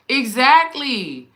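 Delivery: loud, high, drawn-out agreement; emphatic agreement. Real, not acted. Host agreeing with a viewer about medicine commercials, emphatic. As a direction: stretch it out in delighted, emphatic agreement.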